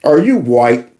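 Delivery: low, lightly voiced official questioning; lightly voiced official checking complexion; mock official. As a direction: play a suspicious official, a touch low. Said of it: "they're gonna be like".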